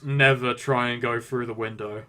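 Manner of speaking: offhand, understated delivery; casual announcement. Acted. Character walking in after being thrown, casual announcement. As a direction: drop it casually as you walk in. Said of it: "just casually announce".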